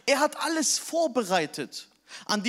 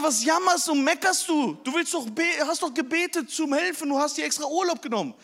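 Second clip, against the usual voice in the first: higher-pitched reproach, fast at the end; scolding wife; 6 semitones higher than usual. Retold or imitated. Wife scolding husband for moaning, high and sharp. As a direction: nag him for complaining. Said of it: "Sie sagte".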